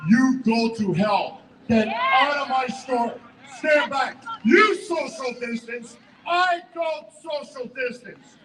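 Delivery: slow, emphatic retold shout; each word hammered out slowly; retold defiant yell. Store owner reenacting telling the officer off, slow defiant shout. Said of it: "I told him".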